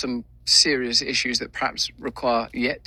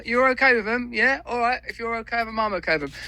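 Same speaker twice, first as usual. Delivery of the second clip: much higher, eager, loyal dog voice; a devoted dog fussing over his owner, pitched way up; Bear the dog talking; 12 semitones higher, faster than usual. Pretend. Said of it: "if Bear could talk, this is what Bear would be saying".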